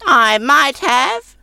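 high crone voice, slow and grudging; ungracious. A narrator's reading. Old woman reluctantly admitting she has salt, high slow grudging crone. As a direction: drag it out unwillingly as a sour old woman.

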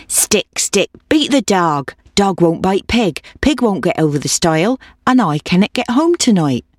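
lightly voiced old woman, chanting her request; pleading old woman. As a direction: urge the dog along, gently singsong.

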